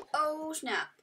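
excited. Real, not acted. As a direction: punch the "Oh" up high.

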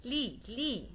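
"لي، لي" with no s at the end; French "لي" twice, final letter unspoken; silent final s. Shown as a demonstration. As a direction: leave the s silent, ending each "لي" on ee. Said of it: "الاس à la fin de mot ne se prononce pas".

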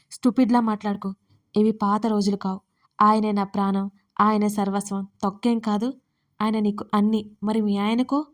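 mocking retort; mock her words back at her; sarcastic. Surya ridiculing Dharani's devotion, sarcastic. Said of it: "అంత వెటకారం అక్కర్లేదు".

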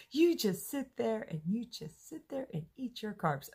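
joking with her coworker about carbs as a punishment, playful mock scold; mock stern punisher. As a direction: pretend to sentence someone to eat carbs.

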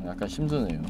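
tipsy, slightly slurred speech. Real, not acted. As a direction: talk like you've had too much to drink. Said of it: "지금 제가 술 마셔서".

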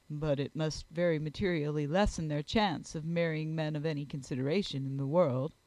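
low, measured gentleman; grave Darcy. Acted. Gentleman answering his friend about marriage prospects, grave and low.

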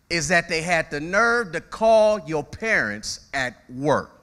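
slow, outraged emphasis on call; indignant. Retold or imitated. Preacher voicing a fed-up parent, slow indignation. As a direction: lean into the outrage, slowly.

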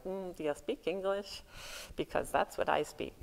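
lightly voiced monolingual tourist, a touch sheepish; mock clueless American. Americans asking the multilingual Iona crowd, a lightly mocking sheepish tone. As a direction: play a sheepish American who only knows English. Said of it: "here the Americans are like".

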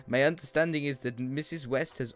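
lightly put-on Russian accent for the slime scientist; bad Russian accent. Streamer voicing a letter writer in a weak Russian accent. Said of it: "I'm fucking shit on Russian accents".

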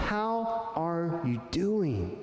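drawn out and caring; a slow sincere check-in; slow, sincere question. Shown as a demonstration. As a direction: ask it slowly, meaning it. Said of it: "look them in the eye and say".

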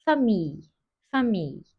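"famille" with its end pressed; stress on the ending. Shown as a demonstration. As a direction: press on the final sound of "famille". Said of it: "sona doğru bir harfi bastırıyorum". ("famille" sözcüğünün sonuna bastırarak)

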